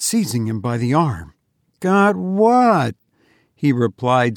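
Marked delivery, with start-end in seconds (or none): 1.8-2.9 startled question. A narrator's reading. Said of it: "staring wildly at me".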